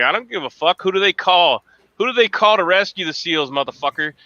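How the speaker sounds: retold taunt at the brother-in-law; mock trash talk. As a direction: rub it in the SEAL's face. Trash talk with Navy SEAL in-law.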